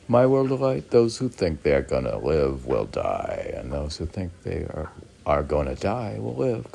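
reading a poem aloud to a friend. Acted. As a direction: declaim it like a proverb. Rereads the same poem.

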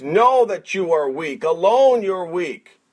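ordinary talk

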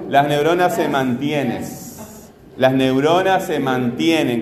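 measured phrase, TIE held in "mantienen"; stress demonstration. Shown as a demonstration. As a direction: stretch TIE in "mantienen" for the class. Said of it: "¿Cuál es la fuerte?".

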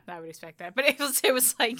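ordinary delivery

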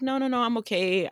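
high-pitched, put-on brush-off; nervous polite refusal. Woman refusing a stranger's ride, high nervous polite re-enactment. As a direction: wave the offer away in a high voice.

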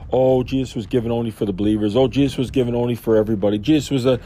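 fast, dismissive parody of quibbling theologians; mocking theologian. Preacher mocking theologians who quibble, fast and dismissive. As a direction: rattle it off like a pedant splitting hairs.

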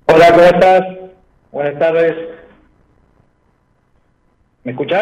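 glitchy, breaking-up call audio; choppy phone line. Real, not acted. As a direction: voice cutting in and out over phone. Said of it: "te escucho entrecortado".

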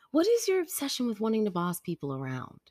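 high retold disbelief; exasperated mom. Mom questioning bossy daughter's obsession, exasperated.

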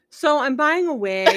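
laughing quote. Retold or imitated. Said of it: "And he goes".

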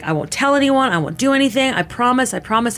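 retold pleading. Retelling her promises to the man with a knife, pleading.

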